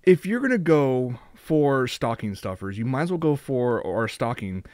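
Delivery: deadpan infomercial spiel; mock ad read. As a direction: sell it like a TV commercial. Mock stocking ad pitch.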